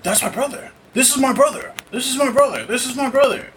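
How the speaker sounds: high-pitched, excited recognition; eager, high and repeated insistence; excited reenactment. Retold or imitated. Acting out excited recognition of brother.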